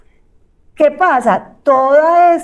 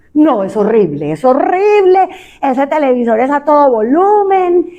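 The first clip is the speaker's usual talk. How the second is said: exasperated complaint; 2 semitones higher, 4 dB louder than usual. Acted. Spouse complaining about loud TV.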